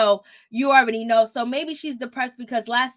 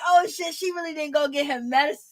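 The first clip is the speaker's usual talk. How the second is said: laughing disbelief; 3 semitones higher than usual. Real, not acted. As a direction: laugh out your surprise. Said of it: "I was like".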